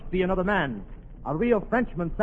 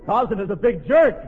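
Tarzan; 2 semitones higher than usual. Acted. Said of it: "You're Tarzan".

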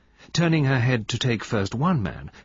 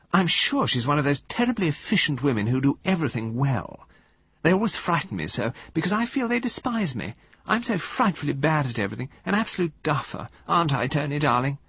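sweet murmur; 6 semitones higher than usual. Acted. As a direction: coo it like a pampered wife. Valentine voiced.

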